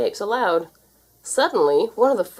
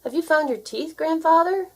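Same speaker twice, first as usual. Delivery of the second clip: shouted over music; 10 semitones higher than usual. A narrator's reading. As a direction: shout to be heard over the band. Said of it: "shouted Wilbur over the music".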